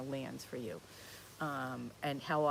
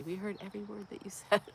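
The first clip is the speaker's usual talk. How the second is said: laughing quote; 5 semitones higher, much faster than usual. Retold or imitated. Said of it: "they laugh at me and say".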